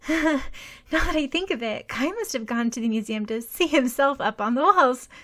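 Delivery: high, bright forced chatter; a girl faking cheer to hide her shock; forced cheerfulness. A narrator's reading. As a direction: sound upbeat to hide worry. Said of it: "Trying to sound cheerful".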